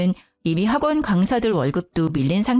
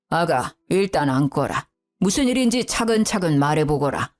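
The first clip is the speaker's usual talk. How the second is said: calming father-in-law; 4 semitones lower than usual. Acted. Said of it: "먼저 저를 진정시켰어요".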